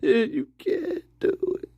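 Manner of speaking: can't keep a straight face; laughing. Real, not acted. Repeats warning while laughing.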